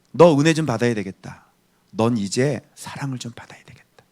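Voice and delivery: low, gentle words of comfort; tender consoling voice. Acted. God speaking to someone who suffered as a child, tenderly.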